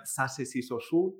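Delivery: sa, se, si, so, su with a plain hissed s; plain Spanish seseo s in sa, se, si, so, su; S sound, as wrong example. Shown as a demonstration. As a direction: recite sa, se, si, so, su with s instead of th. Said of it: "no se pronuncia de esta manera".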